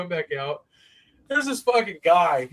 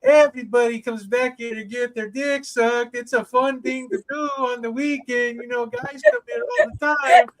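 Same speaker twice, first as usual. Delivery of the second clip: put-on Hispanic accent, pitched up; 5 semitones higher than usual. Man pitching the back room to a newcomer, imitated Hispanic accent. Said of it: "he had a deep fucking like, Hispanic accent".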